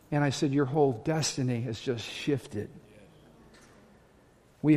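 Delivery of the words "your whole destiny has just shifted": hushed pronouncement. Retold or imitated. Retelling his counsel to woman.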